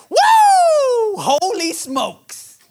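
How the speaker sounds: high, loud whoop then slow holy smokes; mock amazed reader, loud; excited whoop. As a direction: whoop like you just saw a miracle.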